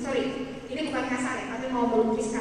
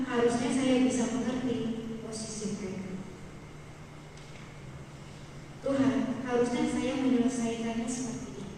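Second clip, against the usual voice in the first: tearful prayer retold; 5 dB quieter than usual. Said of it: "saya udah nangis".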